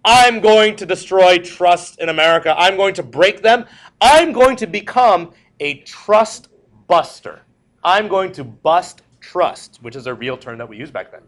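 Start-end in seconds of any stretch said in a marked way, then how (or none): 0.0-9.8 fiery president. Retold or imitated.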